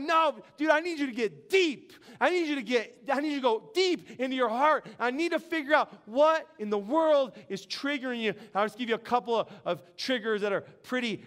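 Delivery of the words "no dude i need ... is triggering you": emphatic, pressing imitation; urgent counselor. Acts counselor urging him deeper.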